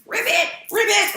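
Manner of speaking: very high, cartoonish frog call; playful squeaky frog imitation; frog ribbit. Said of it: "the frog starts going".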